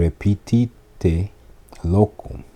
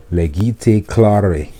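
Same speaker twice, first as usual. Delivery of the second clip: slow teacher model. Shown as a demonstration. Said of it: "Read aloud, slower".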